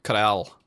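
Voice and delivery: a single flicked R in the Scottish manner; one quick tongue tap for the R; short Scottish R flick, no full roll; Scottish tapped R. Shown as a demonstration. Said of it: "They just do the".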